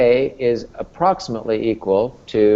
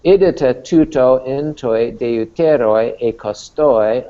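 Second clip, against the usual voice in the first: reading Greek aloud. Shown as a demonstration. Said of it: "reads the Greek text".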